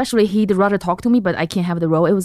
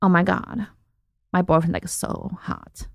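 attempted American accent; 5 dB quieter than usual. Shown as a demonstration. Comedian shows host her best American accent, attempted. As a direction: put on an American girl's accent, unconvincingly. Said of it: "Let me hear your best, like, American accent".

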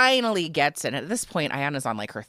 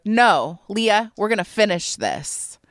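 urging her on; 5 semitones higher, 5 dB louder, slower than usual. Retold or imitated. Friend urging partner to finish.

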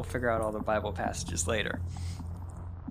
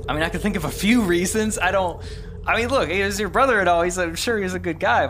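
acted hedging; 7 semitones higher, 6 dB louder than usual. Acted reluctant accusation in church play.

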